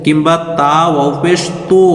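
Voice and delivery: তো said with an o vowel, the forbidden majhul way; তো pronounced with o instead of u; wrong o sound. Shown as a demonstration. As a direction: show the error: তো as to. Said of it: "যদি ওকার উচ্চারণ করে তাহলে এটা মাজহুল হয়ে যাবে".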